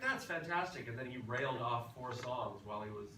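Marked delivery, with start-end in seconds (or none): 0.0-0.9 captain's voice. Retold or imitated. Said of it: "he was like".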